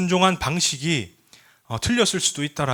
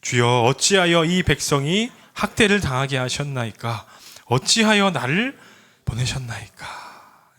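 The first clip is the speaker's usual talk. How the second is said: heartfelt scripture reading; slower than usual. Shown as a demonstration. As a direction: read it slowly as a lament to the Lord. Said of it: "우리의 마음을 담아서 읽어볼까요". (마음을 담아 길게 끌며 읽는 성경 낭독)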